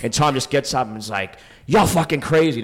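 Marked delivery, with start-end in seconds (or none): 1.7-2.6 mock shout. Tom shouting at him.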